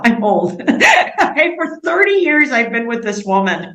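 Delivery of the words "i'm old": self-mocking laugh. Real, not acted. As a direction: tease yourself about your age, then burst out laughing. Joke about her own age.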